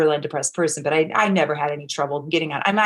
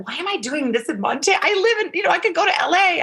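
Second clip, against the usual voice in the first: mock exasperated; 11 semitones higher, faster than usual. Retold exasperated inner voice.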